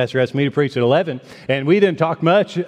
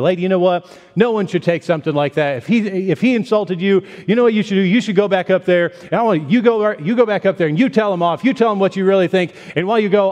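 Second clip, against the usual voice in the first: egging her on; 5 semitones higher than usual. Retold or imitated. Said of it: "He said".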